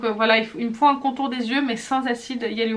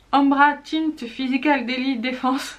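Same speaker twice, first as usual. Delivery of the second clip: Umbra Tint Physical Daily Defense read slowly with a French accent; careful French-accented English on Umbra Tint Physical Daily Defense; 2 semitones higher, slower than usual. Real, not acted. Vlogger reading an English product name, French-accented. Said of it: "Désolée pour mon accent".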